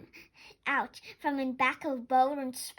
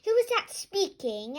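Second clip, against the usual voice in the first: surprised; 7 semitones higher, 5 dB louder than usual. A narrator's reading. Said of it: "asked a surprised fox".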